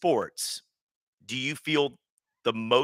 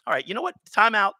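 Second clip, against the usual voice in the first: higher-pitched mock interruption; mock exasperation; 9 semitones higher, 4 dB louder, faster than usual. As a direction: cut the whiner off, voice raised in pitch. Retort to the crying supermodel.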